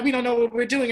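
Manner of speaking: the doctors' "We don't know what we're doing." quoted high and loud, as a mock; mock exasperated doctors. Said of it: "They were like".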